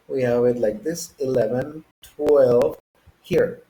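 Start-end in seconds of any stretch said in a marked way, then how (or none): 1.2-2.8 "eleven, twelve" with each syllable set apart; British "eleven, twelve", carefully separated; syllables broken up. Shown as a demonstration. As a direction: space out the sounds in "eleven, twelve". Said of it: "break up the syllables a little more".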